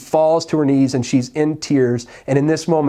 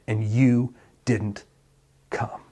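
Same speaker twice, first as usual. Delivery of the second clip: fading grief; 3 semitones lower, 5 dB quieter, much slower than usual. Retold or imitated. Martha's grief fades.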